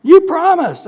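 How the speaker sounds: put-on high, loud child's wail; child wailing at dad; whiny kid. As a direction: whine it out like a kid. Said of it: "your kids are going".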